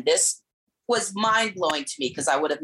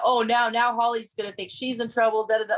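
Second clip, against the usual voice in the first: high, worried inner voice; anxious inner voice; 8 semitones higher than usual. Retold or imitated. Her inner voice worrying that Holly is in trouble, higher. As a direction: fret like a people-pleaser. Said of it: "what am I thinking now".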